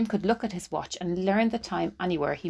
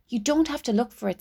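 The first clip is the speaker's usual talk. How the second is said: urgent; 6 semitones higher than usual. Acted. Della to Jim.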